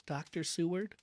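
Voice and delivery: Seward said softly and composed, with a gentle rise; politely name the doctor, hushed; quiet, well-bred. Acted. Patient quietly addressing Doctor Seward, refined. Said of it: "in a quiet, well-bred voice".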